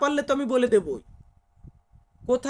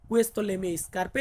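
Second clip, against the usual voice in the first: "Questo le mie scarpe" spoken at a crawl; very slow recap; much slower than usual. Shown as a demonstration. Teacher summing up the Italian sentence slowly. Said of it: "স্কার্পে মানে হচ্ছে জুতা".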